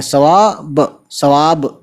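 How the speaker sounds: सवाब with a clipped final बे, no vowel after it; model pronunciation. Shown as a demonstration. Urdu teacher to students, clean final बे in सवाब. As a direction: end सवाब right on the bare बे sound. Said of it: "बे पे आवाज़ ख़त्म कर देंगे".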